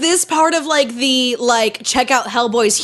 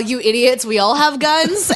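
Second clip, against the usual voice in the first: normal talking voice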